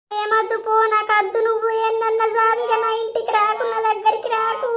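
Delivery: weep as you send him off; crying, telling him not to come near; tearful refusal. Acted. Wife pushes husband away crying.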